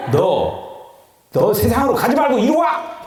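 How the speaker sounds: calling out high and loud, commanding; stern call. Acted. Preacher voices command to the body.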